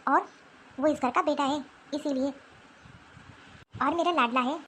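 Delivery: put-on an old woman brushing off the girl's tears; stern grandmother. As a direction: grandmother scolding her granddaughter coldly. Stern grandmother scolds girl.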